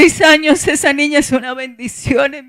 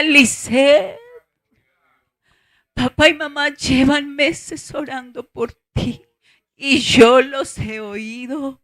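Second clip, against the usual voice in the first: divine voice from light; 6 dB quieter, slower than usual. Retold or imitated. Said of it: "una voz que salía de".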